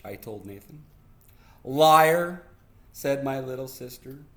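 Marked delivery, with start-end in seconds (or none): 1.6-2.4 tag accusation. Acted. Little sister accuses brother in story.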